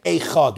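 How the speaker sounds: Echad with first vowel as a long ei; Echad as ei-chad. Shown as a demonstration. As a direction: open Echad on ei, as in eight. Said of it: "sounds like you're saying".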